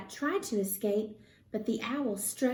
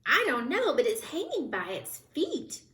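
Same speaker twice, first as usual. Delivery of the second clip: chirped; 5 semitones higher than usual. Acted. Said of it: "chirped Flitter".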